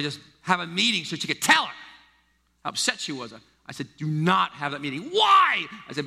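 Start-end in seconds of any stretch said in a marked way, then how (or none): 4.0-5.1 firm warning. Retold or imitated. Father warning daughter. 5.1-5.7 high, loud protesting why; daughter's protest. Retold or imitated. Daughter protesting her father's advice, high and loud.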